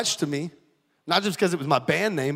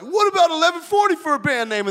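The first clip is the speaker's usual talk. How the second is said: high, eager pitch of the idea; lightly voiced younger self proposing a band name; mock excited pitch; 11 semitones higher than usual.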